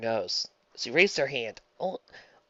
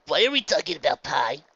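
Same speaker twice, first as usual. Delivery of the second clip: huffy; 3 semitones higher, 5 dB louder than usual. Acted. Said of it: "Scootaloo huffed".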